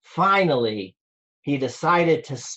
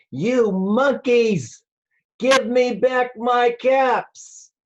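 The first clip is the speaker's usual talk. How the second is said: hammed-up storybook anger at the monkeys; angry peddler demands caps back from the monkeys; 7 semitones higher, slower than usual. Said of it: "This made the peddler angry".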